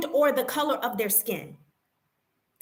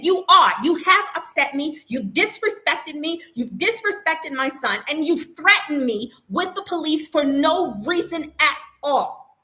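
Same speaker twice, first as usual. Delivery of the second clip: firm accusing voice, louder on the first words; retold anger; 2 semitones higher, 3 dB louder than usual. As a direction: lay out each accusation with rising heat. Confronting the staff, retold.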